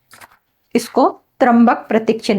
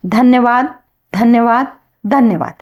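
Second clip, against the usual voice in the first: ritual thanks. Shown as a demonstration. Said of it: "भगवान बुद्ध को तीन बार धन्यवाद देती हूँ".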